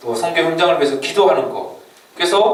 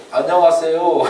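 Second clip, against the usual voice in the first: clumsy foreigner's Korean; 3 semitones higher than usual. Acted. Foreigner greeting a Korean in clumsy Korean, lightly imitated accent. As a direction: mildly mimic a foreigner's halting Korean. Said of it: "서툴지만 한국말로".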